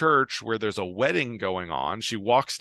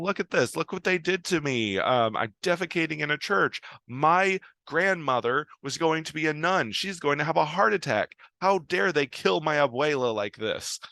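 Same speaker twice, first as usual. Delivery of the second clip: higher, agitated lament; hammed-up distress, pitched up throughout; mock freak-out; 6 semitones higher than usual. Salma Hayek shows her lawyer the show, in a high mock panic. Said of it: "freaking out and saying".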